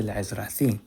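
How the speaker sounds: le'ezrathi with th as in thin; chosen pronunciation. Shown as a demonstration. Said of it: "that's how they say in the chosen pronunciation".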